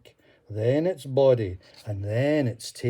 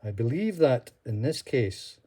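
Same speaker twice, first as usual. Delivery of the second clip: smiling. Acted. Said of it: "Columba smiled and said".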